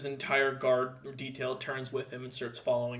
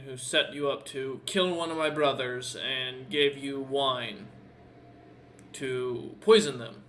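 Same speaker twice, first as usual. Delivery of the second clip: game master voicing a composed captor, louder; lightly voiced captor, challenging the prisoner; 4 dB louder than usual. Captor questioning a prisoner's accusation of poisoning, lightly acted challenge.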